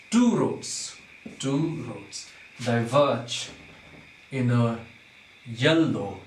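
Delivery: "two roads", "diverge", "in a", "yellow" as slow separate groups; divided into feet. Shown as a demonstration. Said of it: "We have to divide first into".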